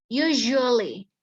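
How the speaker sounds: "Usually" slow, with a buzzing zh in the middle; slow pronunciation demo. Shown as a demonstration. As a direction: stretch "Usually" with a voiced zh. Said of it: "tapi bacanya z".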